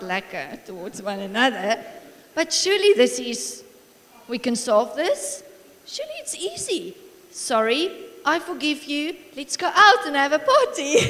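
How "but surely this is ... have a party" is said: lifted, eager imitation of a child; child's simple reasoning. Young son solving mommy and daddy's spat, brightly matter-of-fact. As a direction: voice a kid proposing the obvious fix.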